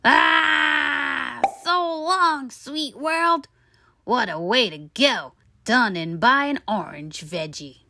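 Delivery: high cry then fading farewell; dying tooth. A narrator's reading. Tooth bids the world farewell, melodramatic. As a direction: ham up a dramatic death.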